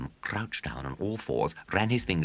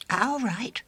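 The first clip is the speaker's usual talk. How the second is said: hasty; 4 dB louder than usual. A narrator's reading. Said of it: "said William hastily".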